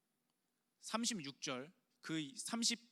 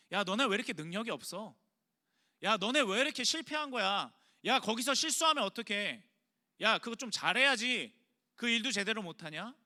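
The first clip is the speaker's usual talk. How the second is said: louder, exasperated scolding; nagging scold; 2 semitones higher, 4 dB louder than usual. Pretend. A pretend Jesus scolding disciples for weakness, loud nagging. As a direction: bark at them for failing. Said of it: "예수님이 그걸로 꾸짖은 게 아니에요".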